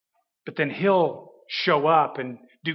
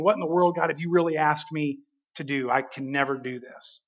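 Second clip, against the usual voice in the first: sinking quieter into a hushed, defeated plea; despairing inner prayer; 3 semitones lower, 6 dB quieter than usual. Retold or imitated. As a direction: let it fade to a near-murmur of giving up.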